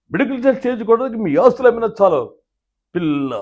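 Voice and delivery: put-on loud, high, theatrical old-school hero; NTR impression. Mimic doing NTR's version of the threat, loud and theatrical. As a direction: declaim it like a grand stage king. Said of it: "ఇదే dialogue NT Ramarao గారు చెప్తే ఎలా ఉంటుంది".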